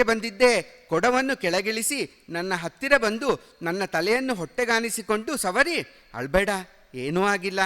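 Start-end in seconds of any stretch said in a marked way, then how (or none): 6.1-7.6 mother comforting her son; soothing. Acted. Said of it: "ಎಂದು ಸಮಾಧಾನ ಮಾಡಿದಳು".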